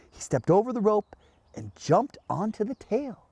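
animated picture-book narration; reading to children. A narrator's reading. Host reading a monkey's adventure to children, animated storytelling. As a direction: tell it to little kids with swooping emphasis.

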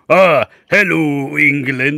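slow, drawn-out mock English hello; a hint of put-on English accent. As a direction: parody the English back at them. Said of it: "an English accent to mock the English".

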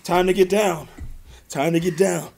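a hint of a sultry stripper cop. Shown as a demonstration. Redoing the stripper line for his cohost, lightly hammed. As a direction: lightly croon it as a party stripper. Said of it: "do that again".

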